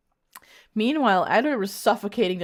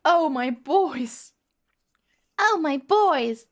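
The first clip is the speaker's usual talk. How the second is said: put-on high, drawn-out melodramatic wail without British accent; dramatic cry; 6 semitones higher, 4 dB louder, slower than usual. A narrator's reading. Heroine runs to her gasping boys, high slow melodramatic cry. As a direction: call out slowly and high, hammed-up.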